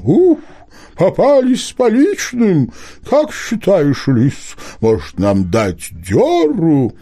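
high, hooting owl voice, slowing down; a fussy owl caught in the act; talking owl. A narrator's reading. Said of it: "сова вдруг произнесла человеческим голосом".

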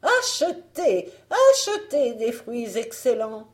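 high, loud fruit-seller's call; crying out. A narrator's reading. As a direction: hawk your wares at the door. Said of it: "en criant".

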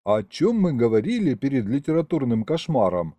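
ordinary delivery

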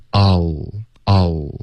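"哦" as ah plus a tongue-tip L, lips still; unrounded "哦". Shown as a demonstration. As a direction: say "哦" like "all" without moving the lips. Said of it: "不要动嘴唇". (“哦”先发啊再顶舌尖，不动嘴唇)

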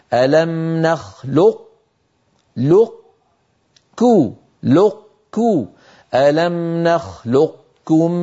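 "نخلقكم" very slow, q held without bounce then released as k; retained elevation. Shown as a demonstration. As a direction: close heavily on q in "لق", then open into k. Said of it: "هذا بإبقاء صفة الاستعلاء".

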